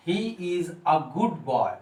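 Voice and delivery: put-on slow "he is a good boy", a said as आ; slow model sentence, "a" sounded आ; article A as AA. Shown as a demonstration. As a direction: spell out each word slowly, with "a" as aa. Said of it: "आ से pronounce होगा".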